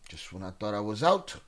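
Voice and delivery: light Godfather impression, sinking low; movie quote that slows and quietens at the end; Al Pacino. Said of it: "pulling me in like Al Pacino".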